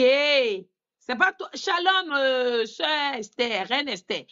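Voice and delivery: drawn-out mock "hey", then call her out by name; interpellation rejouée. Retold interpellation of sister Esther. (interpellation indignée, rejouée d'une voix haute)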